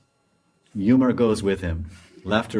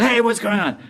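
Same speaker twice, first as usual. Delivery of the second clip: high startled yelp, hey what's going on; startled cry; 10 semitones higher, 4 dB louder than usual. Acted. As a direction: cry out in sudden surprise. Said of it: "And he goes".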